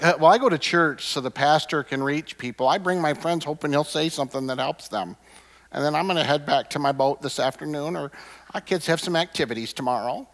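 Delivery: lightly put-on voice of a complacent churchgoer, shrugging off duty; a hint of a half-hearted, self-satisfied member brushing it off; lazy churchgoer voice. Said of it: "I don't know why I'm talking like this".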